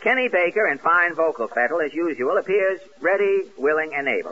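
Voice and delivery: bright radio announcer intro. Acted. Host introducing a singer in announcer style. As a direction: present the singer to the audience.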